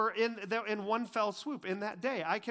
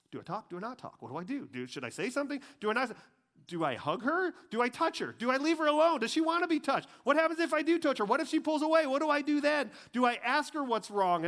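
starts hushed, builds to a high, loud, rushed panic; panicked guy's thoughts; 7 semitones higher, 4 dB louder, faster than usual. Retold or imitated. A man panicking while a woman cries beside him. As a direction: spiral from nervous murmur into frantic questions. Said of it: "we're just thinking".

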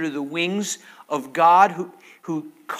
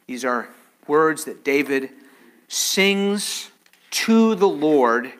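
ordinary talk, nothing marked

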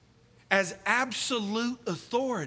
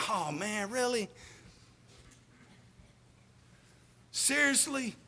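muttered dismay; 9 dB quieter than usual. Retold or imitated. Imagined thought, flashlight dying.

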